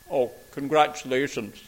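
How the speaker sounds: lightly imitated posh Glaswegian headmaster; a hint of marble-in-the-mouth Glasgow posh; posh Glasgow accent. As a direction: put on a slightly plummy Glasgow accent. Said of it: "he had a very posh accent".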